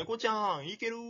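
lilting imitation, checking in without blame; gentle, unblaming check-in. Imitating his friend checking on him before recording, gently. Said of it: "全然責めないのね".

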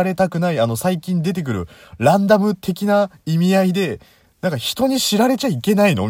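high, loud exasperated ranting. Real, not acted. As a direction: vent your frustration, half laughing. Heated complaint about phone menu.

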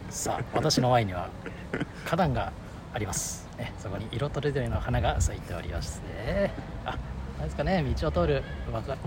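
slow, measured announcer voice; slow live commentary. Shown as a demonstration. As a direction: describe the scene like a slow broadcaster. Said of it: "ちょっとやってみて、実況。".

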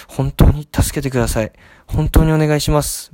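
mildly acted, urgent begging; desperate pleading. Caller begging lost-property staff to help find a bag, mock desperate pleading. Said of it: "声色を変えてちょっと".

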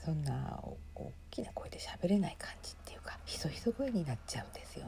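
soft, half-whispered talk; real hushed, breath-heavy murmur. Real, not acted. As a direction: keep your voice down as if inside the concert hall. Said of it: "ひそひそ声になっちゃうんですよね".

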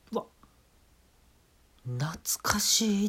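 breathy, slow murmur of nostalgia; nostalgic whisper. Acted. Comic tasting wings, whispering nostalgically. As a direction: sigh it out as if remembering old times. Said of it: "って言ってやるんですよ".

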